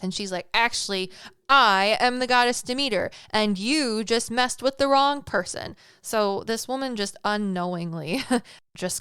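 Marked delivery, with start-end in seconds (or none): 0.5-5.7 louder, higher retold snap of a wronged goddess; mock-furious goddess putting a mortal in her place; snapping goddess. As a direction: bark it like a goddess pulling rank. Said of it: "she snaps".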